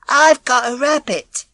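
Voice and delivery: high, slow, timid reply; little girl's voice. Acted. Frightened little girl answering the neighbour, timid. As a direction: answer shyly. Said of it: "she said at last".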